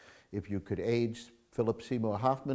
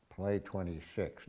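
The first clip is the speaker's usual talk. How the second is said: soft, slow hushed take on Play twenty-six; quiet demo whisper; 3 semitones lower, 7 dB quieter, slower than usual. Retold or imitated. Telling the Casablanca scene, a hushed wrong-way Play twenty-six. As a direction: hush it low and slow, as the wrong way. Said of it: "he doesn't whisper".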